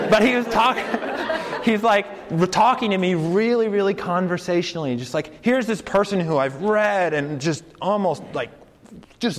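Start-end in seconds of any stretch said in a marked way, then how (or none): 0.0-5.0 laughing while telling. Real, not acted. Fan recalling meeting his favorite philosopher, laughing high. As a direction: giggle through the memory.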